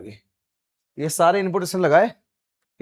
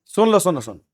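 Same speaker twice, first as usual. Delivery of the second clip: scolding hush; 5 semitones higher, 3 dB louder than usual. Real, not acted. Teacher silencing chattering class.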